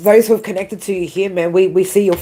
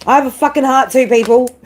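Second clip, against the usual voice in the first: pitched up and pushed, a real tearful cry of protest; emphatic outburst; 6 semitones higher than usual. Real, not acted.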